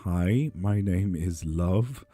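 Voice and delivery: slow, simple words like a beginner's lesson; kindergarten-level French. Retold or imitated. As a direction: spell it out like a child's first sentences. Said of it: "it turns into kindergarten language".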